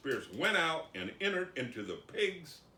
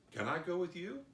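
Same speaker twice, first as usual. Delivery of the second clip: high, rising meek question; acted plea to tag along; begging; 6 semitones higher than usual. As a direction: ask hopefully as the healed man. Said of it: "begged Jesus".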